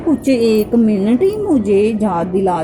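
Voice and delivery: acting out a mild scolding; upset reproach. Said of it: "तो मैं नाराज़ हो रही हूँ गुरुपा से".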